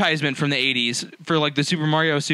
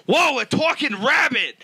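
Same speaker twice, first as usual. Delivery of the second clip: slow, awed, higher mock gasp; mock amazement; 8 semitones higher, slower than usual. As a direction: gape at it like a cartoon rabbit. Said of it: "Bob Hoskins would be like".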